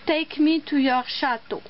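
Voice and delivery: slow English title with a French accent. Real, not acted. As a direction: read the English name carefully, French accent showing. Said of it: "mon accent anglais n'est pas génial".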